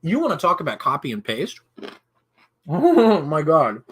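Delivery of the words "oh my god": ice in mouth. Real, not acted. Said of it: "Sorry, I've got an ice cube in my mouth".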